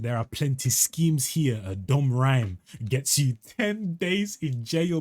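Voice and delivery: slow, drawn-out tough-guy impression; mock slow gangster voice. Translating the rapper's threat in a mock slow voice. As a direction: stretch it out like a menacing rapper. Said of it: "Man ain't talking like this".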